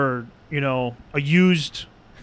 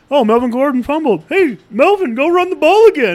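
sarcastic mock coach; 10 semitones higher, 6 dB louder than usual. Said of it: "And we're like".

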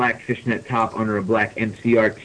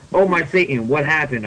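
higher-pitched pretend scream; mild mock scream; 4 semitones higher than usual. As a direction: read a scream at talking volume. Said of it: "I screamed".

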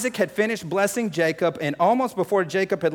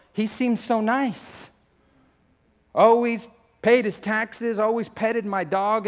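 lightly acted higher-pitched neighbour on the news; bewildered neighbour; 5 semitones higher, 3 dB louder, slower than usual. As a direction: imitate a disbelieving local, drawn out and higher. Shocked neighbours interviewed on the news.

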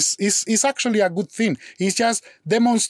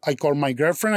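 ordinary delivery

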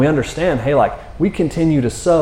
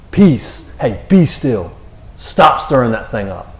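firm command, punched at the start; stern rebuke; slower than usual. Acted. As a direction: put it in its place, mildly scolding. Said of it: "a stern putting it in its place".

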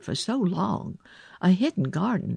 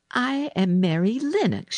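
put-on higher-pitched girl introducing herself; Mary; 7 semitones higher than usual. A narrator's reading. Girl answering the sick boy, high and composed. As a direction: announce it in a raised girl's voice.

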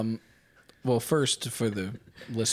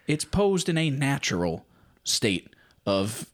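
infomercial; 3 semitones higher than usual. Pretend. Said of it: "here comes the sales pitch".

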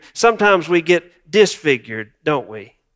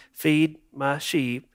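gentle; 7 dB quieter, slower than usual. Retold or imitated. Jesus gently commanding.

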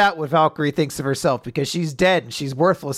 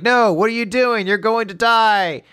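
higher-pitched, retold cry of alarm; alarmed protest; 5 semitones higher than usual. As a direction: act out the crew protesting in mock panic. Everyone protests Witch's sacrifice.

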